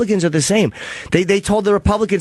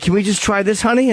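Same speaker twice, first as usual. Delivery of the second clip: higher, coaxing mock-parent voice; father to daughter; 5 semitones higher than usual. Host imitating the repairman treating him as daughter, coaxing. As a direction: imitate a dad gently humoring his girl. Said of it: "like I was his daughter".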